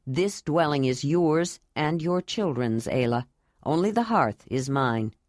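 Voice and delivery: a grave, tender vow, voiced a bit low; Jondalar.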